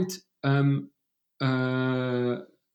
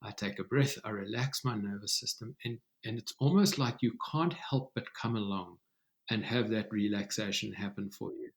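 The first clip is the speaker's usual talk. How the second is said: softer, unhurried calming voice; slowing down to relax; 6 dB quieter than usual. Shown as a demonstration. Host demonstrating calm to the listener, softer and unhurried. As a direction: let the breath settle the words, softly. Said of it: "You can hear it slow down just a little bit".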